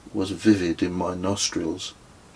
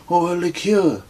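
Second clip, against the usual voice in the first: high, louder sly offer; Kez, higher voiced, slyly adding a drink; character voice; 11 semitones higher, 5 dB louder than usual. A narrator's reading. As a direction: toss in the offer with a grin.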